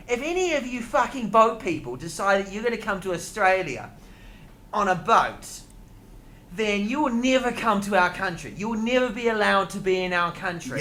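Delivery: mock Australian minister laying down the law; hammed-up Australian accent. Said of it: "let me do the Australian accent".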